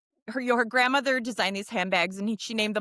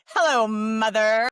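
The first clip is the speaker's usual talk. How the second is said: slow, louder, drawn-out timid greeting; Buster Bluth voice; 5 dB louder, slower than usual. Retold or imitated. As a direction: draw it out like an awkward grown son. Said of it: "now I sound like Buster Bluth".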